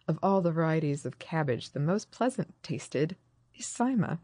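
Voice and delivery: deliberate, measured read-aloud of a quotation; quote-reading voice. Real, not acted. Host quoting an ancient writer on cabbage, quote-reading voice. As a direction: set the quote slightly apart from normal speech. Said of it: "It's my quote reading voice".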